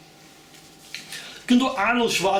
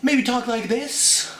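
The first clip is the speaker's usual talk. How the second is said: higher, slow goofy voice; Jim Carrey; 6 semitones higher, slower than usual. Retold or imitated. Lightly voiced Jim Carrey, high and slow. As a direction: mug it like a zany comic. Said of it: "I can do Jim Carrey".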